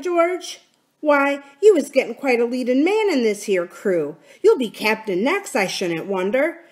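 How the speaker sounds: lightly voiced wry pirate leader; mock admiration with lilting swings in pitch; sardonic sea cook. Silver needles George over the black spot, sardonic.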